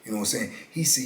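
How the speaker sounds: normal talking voice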